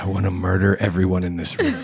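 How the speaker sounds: private aside, as if into one ear. Retelling what was said into the wife's ear: imitating a very quiet remark. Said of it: "said in her ear very quietly".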